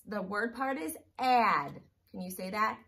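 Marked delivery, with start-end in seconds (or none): 0.1-1.7 slow. Shown as a demonstration. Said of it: "I'm gonna give you a word part".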